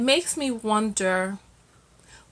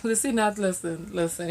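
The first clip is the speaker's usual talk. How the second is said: laughing hush; 6 dB quieter than usual. Real, not acted. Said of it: "laughing hushed listen".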